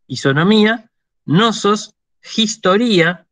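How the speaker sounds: spaced Greek words, penultimate syllable lifted, "historia" said his-to-RI-a; careful citation with next-to-last stress; reading Greek examples. Shown as a demonstration. Greek teacher continues the paroxytone list, careful demonstration. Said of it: "Las voy a leer".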